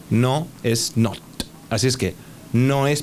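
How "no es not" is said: "not" slowed with the final t pronounced; slow clear "not". Shown as a demonstration. Teacher slowly stressing the final t. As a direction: land hard on the t of "not". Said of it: "hay que pronunciar la T".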